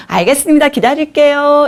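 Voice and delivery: high sing-song compliant answer; 예쁘게 말하기. Retold or imitated. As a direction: agree in a put-on sweet voice. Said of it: "얘로 얘기한 거예요". (억지로 상냥하게 높여 답하는 말투)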